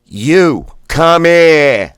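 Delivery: "come here" with Boston "here", loud and high; Boston blast. Shown as a demonstration. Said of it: "the here is like fire. That's Bostonian".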